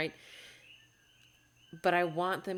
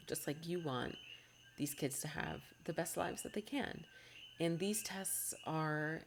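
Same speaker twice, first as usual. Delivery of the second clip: getting emotional; 3 dB quieter than usual. Real, not acted. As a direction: let the feeling soften the words. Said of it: "of course I'm getting emotional".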